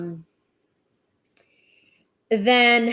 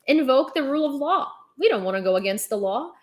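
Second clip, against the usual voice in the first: mock innocent official; 4 semitones higher than usual. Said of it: "they're just saying".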